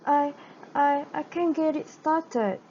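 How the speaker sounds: high, frightened stutter. Acted. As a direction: stammer nervously as a girl. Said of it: "Gretel stuttered".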